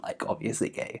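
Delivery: "obviously gay" whispered, unvoiced; whispered aside. Shown as a demonstration. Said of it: "contrast of obviously gay".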